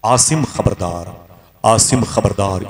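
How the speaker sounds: slow, drawn-out ghostly warning; eerie slow warning call; unseen warning voice. Retold or imitated. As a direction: call his name slowly like a voice from nowhere. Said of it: "अचानक मेरे पीछे आवाज आई".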